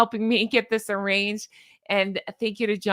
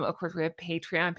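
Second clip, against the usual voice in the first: usual speaking voice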